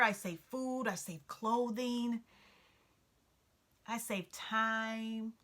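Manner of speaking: starts high, a pitiful little whine; a poor mouse pleading for pity; high-pitched and pitiful. A narrator's reading. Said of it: "His voice became high-pitched and pitiful again".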